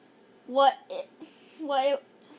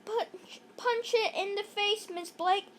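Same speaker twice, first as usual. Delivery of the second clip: shout; 6 semitones higher than usual. Acted. Ryan urging Miss Blake to fight the bear, shout. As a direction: yell at her to hit it. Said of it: "shouted Ryan".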